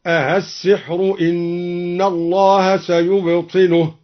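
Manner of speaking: the questioning variant آلسحر, drawn out; second reading demo; alternate reading. Shown as a demonstration. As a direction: recite آلسحر إن الله سيبطله with an opening question hamza, slowly. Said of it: "قال موسى".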